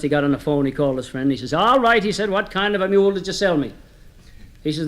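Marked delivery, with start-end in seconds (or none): 1.5-3.7 mildly exasperated, pitched up at first; acted annoyance, pushing on the opening words; disgusted. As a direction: complain in mild disgust to the seller. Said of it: "Finally, in disgust".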